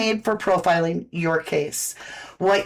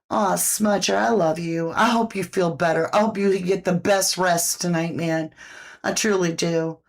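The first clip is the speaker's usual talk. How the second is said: tender to pet; 4 semitones lower than usual. Real, not acted. Owner wishing her sick cat Smudger good rest, tender and lower.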